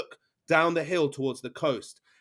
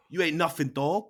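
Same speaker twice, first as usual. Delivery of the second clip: taunting pirate; 6 semitones higher, 5 dB louder than usual. Acted. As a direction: sneer at the posh city kid. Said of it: "Amber goes".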